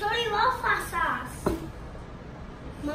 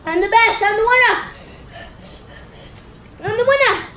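triumphant; 2 semitones higher, 6 dB louder, faster than usual. Real, not acted. Kid claims victory.

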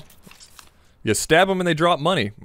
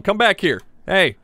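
higher-pitched, insistent call; calling after someone; 5 semitones higher than usual. Pretend. Player chasing an enemy he needs to kill, calling out.

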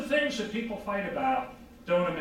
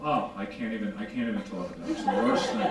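mock despair, laughing; 11 semitones lower, faster than usual. Acted awfulizing dialogue.

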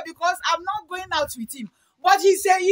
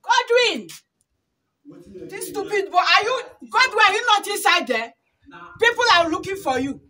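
shouting; 3 semitones higher than usual. Real, not acted. Summoning Godwin because people are looking for him, shouting. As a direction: call out crossly to someone indoors. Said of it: "stop shouting now".

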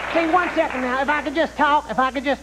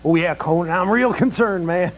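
low, mock-concerned politician; sarcastic; 6 semitones lower than usual. Clinton answers Conan about the polls, sarcastic. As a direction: feign deep concern, not meaning it. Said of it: "from your sarcastic response".

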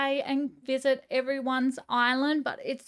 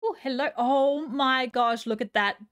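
awed excitement; 4 dB louder than usual. Real, not acted. Seeing a lovely barn.

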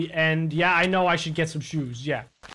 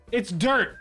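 rising, mocking echo of chat; mocking quote; 3 semitones higher than usual. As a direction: repeat it back with a mocking lilt. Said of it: "You said".

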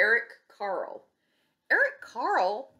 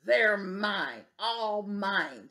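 screamed; much slower than usual. Acted. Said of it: "screamed the grouchy ladybug".

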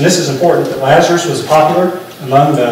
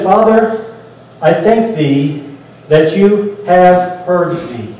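slow, measured address to God; solemn prayer; much slower than usual. Acted. Jesus thanking his Father at the tomb, slow solemn prayer. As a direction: pray it out slowly, pausing between phrases.

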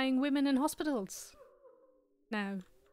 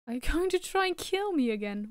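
louder, higher frightened demand; alarmed shout; 4 semitones higher, 4 dB louder than usual. Real, not acted. Player confronting the ghost mother, loud and alarmed. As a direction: push back in sudden alarm.

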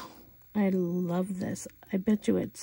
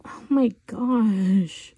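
awed whisper; 7 dB louder, much slower than usual. Real, not acted. Admiring nail polish.

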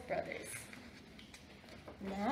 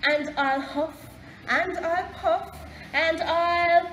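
loud threat rising in pitch; mounting storybook shout; blustering threat; 5 semitones higher, 7 dB louder, slower than usual. A narrator's reading. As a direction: build up bluster, as if about to blow. Pig threatens the wolf in story.

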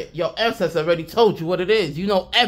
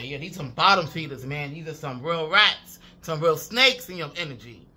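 ordinary delivery

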